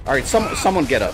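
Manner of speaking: urgent call. Real, not acted. Squad down, calling teammates.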